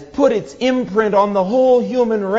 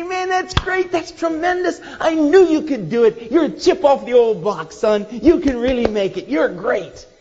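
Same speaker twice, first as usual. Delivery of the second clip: much higher, excited praise; delighted father praising; 4 semitones higher than usual. Retold or imitated. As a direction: gush over the boy's jump.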